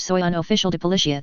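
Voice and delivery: quick Spanish line; speaking Spanish. Acted. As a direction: rattle it off in Spanish. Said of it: "says in Spanish".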